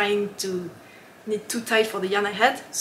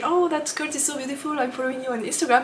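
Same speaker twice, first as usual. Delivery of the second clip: imitated gushing admiration; 4 semitones higher, faster than usual. Retells designers' admiring compliment.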